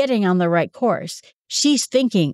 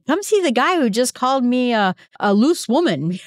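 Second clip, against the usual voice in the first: joking Samaritan woman; 4 semitones higher than usual. Retold or imitated. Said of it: "I joked in a class once".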